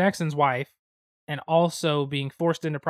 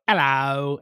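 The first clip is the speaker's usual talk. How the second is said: lightly put-on British greeting; drunken British accent. Drunk, greeting people while walking around, British accent. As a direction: toss out a mock British hello. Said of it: "So you turn British".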